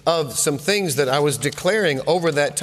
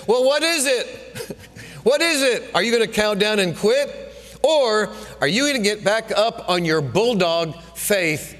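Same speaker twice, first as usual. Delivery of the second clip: demanding coach; 4 semitones higher than usual. Retold or imitated. Preacher voicing the Lord as coach demanding an answer. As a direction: press him for an answer like a tough coach. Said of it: "our coach was getting after us".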